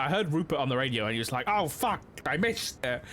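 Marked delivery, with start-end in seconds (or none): 1.5-3.0 lightly posh British voice; a hint of a posh gent cursing. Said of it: "but in a very posh voice".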